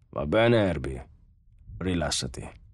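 low-key, calming reassurance; soothing. A narrator's reading. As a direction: settle a nervous robot gently. Lanning soothes the robot.

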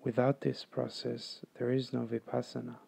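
calm, measured meditation guide; guided meditation. Acted. Meditation teacher guiding listeners to follow the breath, calm and unhurried. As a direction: lead them through it evenly, with long pauses.

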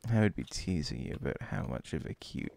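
put-on teasing anime older-sister voice; ara ara voice. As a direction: coo it like a teasing anime onee-san. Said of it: "I had to break the Ara Ara voice".

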